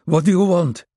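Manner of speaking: high, loud, frightened plea; a scared man stammering at a gun; Maxim, at gunpoint, stammering in fear. Acted. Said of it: "Maxim stammered".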